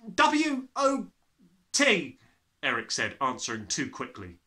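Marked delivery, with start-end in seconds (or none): 0.1-2.2 put-on high, timid boy's voice; brave small boy. Small boy daring to question the headmistress.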